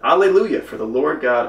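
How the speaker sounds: high, loud exclamation of praise; thundering praise. Acted. Great multitude praising God, thundering praise. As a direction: proclaim it out loud, voice lifted high. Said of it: "mighty thundering, saying".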